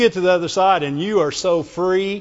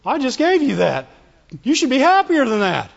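upset; 4 semitones higher than usual. Acted. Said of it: "they're upset now".

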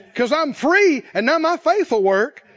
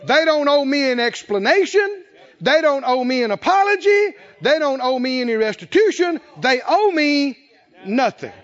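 releasing shout; 3 semitones higher, 4 dB louder than usual. Pretend. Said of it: "and you go".

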